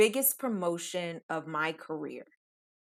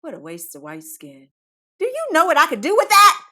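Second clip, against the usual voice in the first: mock inner lament; 7 semitones higher, 9 dB louder than usual. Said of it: "I silently cry to myself and I think".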